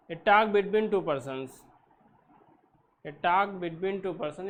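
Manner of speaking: slow, spaced-out definition; slow dictation. Shown as a demonstration. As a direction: read it slowly so they can write. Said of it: "teacher dictating definition slowly".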